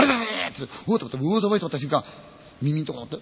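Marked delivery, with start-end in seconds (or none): 3.2-3.2 ghostly wheeze. Retold or imitated. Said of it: "苦しそうな声なんですよ".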